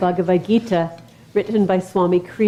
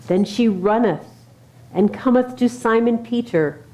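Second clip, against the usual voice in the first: scripture reading. Acted. Reads Easter scripture to congregation.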